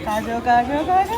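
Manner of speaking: rising sing-song call; playful calling. Real, not acted. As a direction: call the little one, building up.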